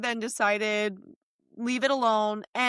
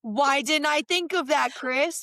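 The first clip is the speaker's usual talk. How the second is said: sarcastic; 2 semitones higher than usual. Retold or imitated. Sarcastic mock of Chris.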